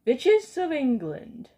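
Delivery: slow, loud commanding shout. Acted. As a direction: summon the whole room with a slow shout. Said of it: "shouted the Grand High Witch".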